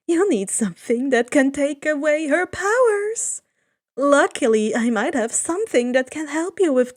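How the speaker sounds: a sly god's hint; lightly voiced Hermes.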